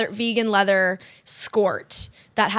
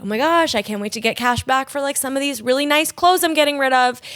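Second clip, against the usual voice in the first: hopeful customer; 4 semitones higher than usual. Acted. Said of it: "and you're like".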